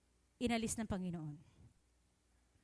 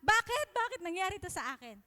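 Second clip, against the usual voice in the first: higher, louder wail of a mock crying child; 5 semitones higher, 4 dB louder than usual. Preacher mimicking a person who wails at loss, mock childlike. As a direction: whine it like a child throwing a tantrum. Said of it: "parang bata na umiiyak ka".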